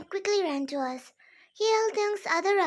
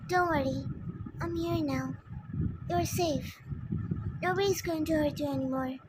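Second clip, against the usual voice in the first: reassuring. Acted. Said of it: "whispering comforting things".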